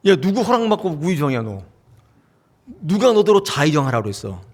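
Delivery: a touch of indignant shouting, mildly played; acted jealous quarrel. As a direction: challenge a rival who grabbed your seat, half-hearted. Disciples quarrel over seats.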